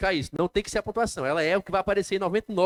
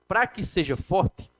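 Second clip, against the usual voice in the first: slow and drawn out; much slower than usual. Shown as a demonstration. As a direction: stretch "Pra que seja forte" slowly, lingering on each word. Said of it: "o som dele tem que demorar mais tempo".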